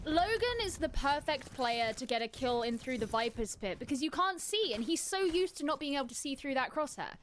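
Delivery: deadpan analysis of the player; straight-faced expert explanation; matter-of-fact. Real, not acted. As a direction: deliver the joke as a serious point. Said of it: "You said that so matter-of-factly".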